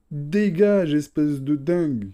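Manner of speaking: angry yell at the screen; annoyed shout. Real, not acted. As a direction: snap "get lost" loudly. Yelling at game enemy. (cri agacé)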